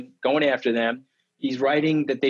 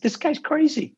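retold outburst; 13 semitones higher than usual. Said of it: "and I said".

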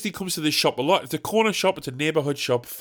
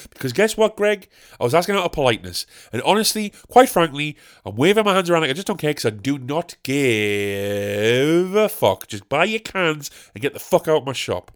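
animated mock rant. Pretend shop worker fed up with Greg, animated rant. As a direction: build to a comic dismissal of the customer. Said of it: "how animated I got during that".

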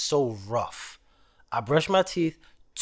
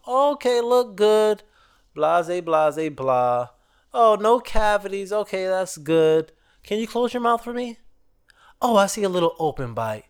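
higher, cheery dentist patter; mock dentist; 4 semitones higher than usual. Mimicking the dentist recommending braces to him. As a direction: breeze through it like a routine checkup.

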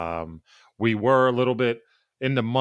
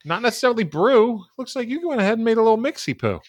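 teasing; 9 semitones higher, 4 dB louder than usual. Real, not acted. Teasing cohost's cocktail.

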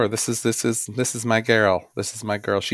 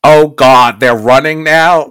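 Miss Piggy; 7 dB louder, slower than usual. Retold or imitated. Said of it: "she says something to the effect of".

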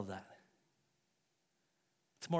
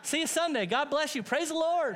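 high sweet church lady voice, much higher; imitating Carol; 9 semitones higher than usual. Pastor imitating Sister Carol after hitting her cart. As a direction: chirp it up high like a cheerful older lady. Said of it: "she goes".

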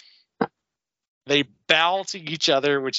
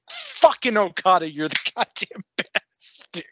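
excited fan cheer; 6 semitones higher than usual. Retold or imitated. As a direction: hype him up like a fan in the stands.

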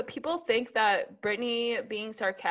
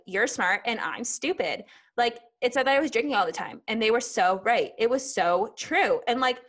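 sarcastic impression of a singer; 2 semitones higher than usual. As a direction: gush with fake delight, dripping irony. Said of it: "in a very sarcastic tone. ... I'm just embodying that tone today".

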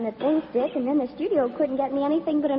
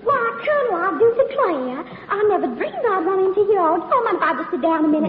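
put-on southern belle; 4 semitones higher than usual. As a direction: play the helpless Southern belle, laying it on thick. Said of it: "my little old southern routine".

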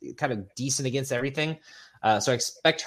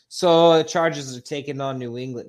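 Boston accent, louder and punchy; 4 semitones higher, 7 dB louder than usual. Shown as a demonstration. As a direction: read it like a loud Boston sports fan. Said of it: "you should keep doing the accent".

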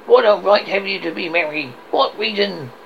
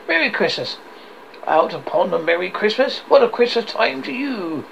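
mildly indignant tirade, slightly raised; 3 semitones higher than usual. Acted. Scrooge rails at Christmas to his nephew, mild indignation. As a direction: rant with a touch of indignation. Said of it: "said Scrooge indignantly".

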